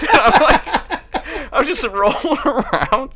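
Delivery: high and slow, breaking into laughter; words squeezed out through laughter; laughing while telling. Real, not acted.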